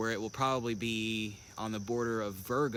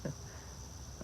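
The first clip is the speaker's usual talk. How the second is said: short breathy nervous chuckle; uneasy little laugh under the breath; 11 dB quieter than usual. Real, not acted. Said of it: "that was a nervous laugh".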